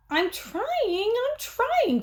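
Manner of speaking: put-on high child holler; boy hollering to his brother; hollering kid. A narrator's reading. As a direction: yell it back through the wall. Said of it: "Fudge hollered".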